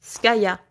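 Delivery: "Skaya" short, with a firm final ah; crisp French "Skaya", no slack on the last ah; French pronunciation. Shown as a demonstration. Repeating the French name for viewers, French-style "Skaya". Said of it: "in French, it's gonna be Skaya".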